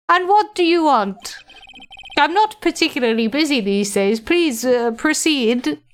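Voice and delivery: lightly voiced grand old gentleman; a hint of a self-important lawyer; pompous old lawyer. Old lawyer receiving a young visitor, lightly pompous.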